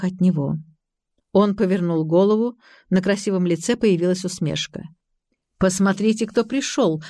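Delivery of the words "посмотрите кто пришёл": ordinary delivery, nothing marked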